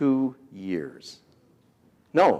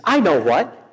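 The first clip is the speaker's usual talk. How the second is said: higher, louder mock wife, fast; wife's firm instructions; 4 semitones higher, 4 dB louder, faster than usual. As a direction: push him into classes, hammed-up. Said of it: "She says".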